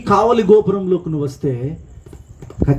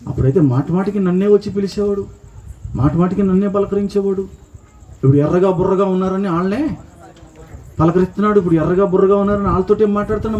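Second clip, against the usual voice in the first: a raised, whiny voice of a slighted church member; petty grumble about being ignored; jealous complaining congregant; 4 semitones higher than usual. Pretend. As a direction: complain like someone left out by the pastor.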